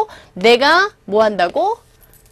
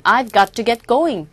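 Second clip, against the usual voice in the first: slow model reading; much slower than usual. Shown as a demonstration. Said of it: "조금 빨리 말하는 경우에는".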